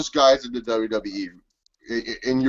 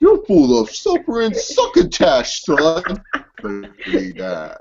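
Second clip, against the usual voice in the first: mock wrestler promo; 7 semitones higher, slower than usual. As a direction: ham up a cartoon wrestler taunt.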